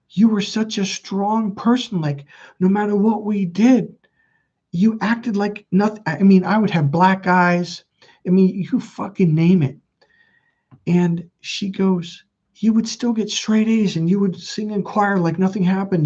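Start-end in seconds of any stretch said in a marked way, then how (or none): 0.1-6.0 high-pitched mother voice; imitated mom. Mom telling Michael how strong he was, insistent imitation. 12.6-16.1 high, insistent mother voice; imitated mom. Mom listing her son's achievements, aggrieved imitation.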